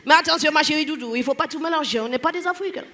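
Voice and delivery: imitated weary Caribbean French; mock-Antillean lecturing; tired Antillean accent. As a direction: correct them like a tired Antillean. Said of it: "les Antillais qui sont toujours fatigués".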